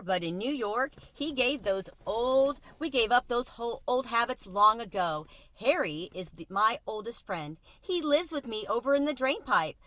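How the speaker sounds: cheerful Tucker Mouse, lightly voiced; lightly voiced city mouse. Tucker Mouse introducing his friend to the cricket, lightly voiced mouse.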